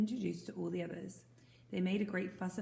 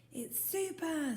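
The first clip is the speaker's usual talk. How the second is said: enthusiastic; 9 semitones higher, slower than usual. Acted. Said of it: "said the boy".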